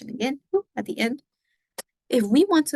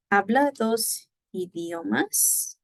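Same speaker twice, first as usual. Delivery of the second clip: slow, Habla dos idiomas lifted high to a rising end; slow rising question; question intonation; 5 semitones higher, slower than usual. Shown as a demonstration. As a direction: ask it slowly, rising at the end. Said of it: "the first way would be question mark".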